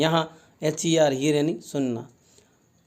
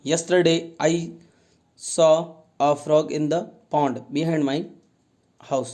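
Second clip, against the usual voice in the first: slow, careful dictation pace; slow reading aloud; much slower than usual. Shown as a demonstration. Teacher reading to pupils, slow and careful. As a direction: read it out word by word for the class. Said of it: "teacher reads sentence slowly".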